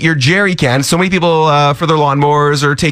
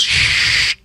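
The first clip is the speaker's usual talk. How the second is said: scalpel squish noise. Retold or imitated. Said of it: "she goes".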